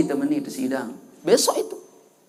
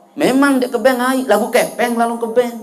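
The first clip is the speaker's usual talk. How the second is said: higher-pitched protest to God; man pleading his case; 4 semitones higher than usual. Acted. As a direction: argue back in a raised pitch. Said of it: "Orang ini berkata". (membela diri dengan nada tinggi)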